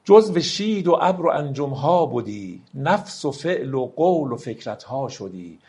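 slow, solemn verse reading; slow poem recital. Acted. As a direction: let each line of the poem ring out slowly. Recites Rumi verse slowly. (دکلمهٔ آرام و باوقار شعر مولانا)

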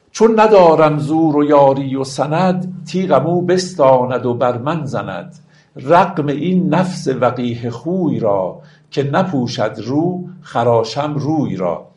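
slow, metered classical verse; drawn-out, stately recital; poetry recitation. Acted. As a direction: launch the couplet firmly, then measure out each phrase. Recites verse between explanations.

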